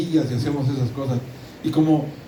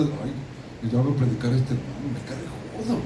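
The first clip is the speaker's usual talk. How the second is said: much softer, a sneering aside under the breath; a preacher mimicking the hidden grumble of the heart, much softer; mock inner grumble; 6 dB quieter than usual. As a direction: play a churchgoer's secret scorn, nearly inaudible. Mocking a judgmental inner grumble.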